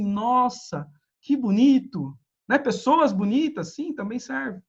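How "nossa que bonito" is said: a light, impressed Nossa, que bonito; mock dazzled viewer. Lecturer imitates a visual viewer, lightly impressed. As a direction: imitate a viewer wowed by bright colors. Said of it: "o visual fica assim".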